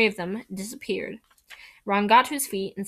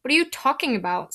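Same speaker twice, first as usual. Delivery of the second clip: quick sharp snap; snapped; 4 semitones higher, faster than usual. Acted. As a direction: snap it back at him. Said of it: "snapped Ron".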